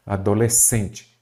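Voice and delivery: "Adolescente" drawn out slowly to show the stressed "cen"; slow teaching demo of "Adolescente", weight on "cen"; stressed syllable shown. Shown as a demonstration. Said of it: "aquela que você fala mais forte".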